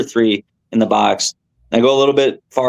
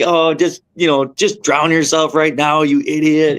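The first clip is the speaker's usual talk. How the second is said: mock self-scolding; 5 semitones higher than usual. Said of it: "cussing myself out".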